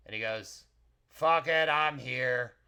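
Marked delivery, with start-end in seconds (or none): 1.1-2.6 loud, gruff arrival; gruff short guy. Acted. Gruff kitchen worker arriving late, loud and curt. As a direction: announce yourself like a gruff little man. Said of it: "a gruff, short guy comes in".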